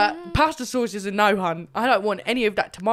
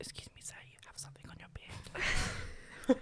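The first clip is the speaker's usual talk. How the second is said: discreet, hushed whisper; 5 semitones higher, 16 dB quieter than usual. Acting out quietly telling a date about food in his beard: whispering. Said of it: "You'd whisper it".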